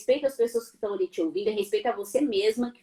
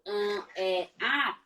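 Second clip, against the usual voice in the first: droning filler sounds; 2 semitones lower, 5 dB quieter, much slower than usual. Shown as a demonstration. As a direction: hum the fillers like a microwave. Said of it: "parecendo um micro-ondas ambulante". (zumbido de hesitação)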